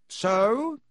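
sharp, clipped demand; a mother's stern "So?". A narrator's reading. Mother confronts sons, hands on hips.

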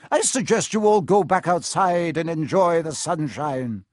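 firm schoolmistress; brisk professor dismissing pupils. Acted. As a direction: politely order them out. McGonagall dismisses the children.

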